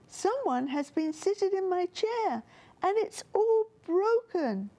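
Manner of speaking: high squeaky cub voice, close to tears; a small bear upset about his broken chair; squeaky little bear. A narrator's reading. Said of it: "in his squeaky voice".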